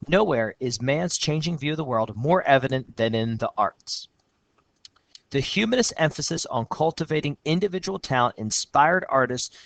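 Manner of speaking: steady reading of a student's essay; essay read aloud. Shown as a demonstration. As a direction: read the student's lines out clearly.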